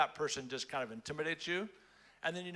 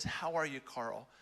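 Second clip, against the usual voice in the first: tender concern. Retold or imitated. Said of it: "he just looks into my eyes and he says".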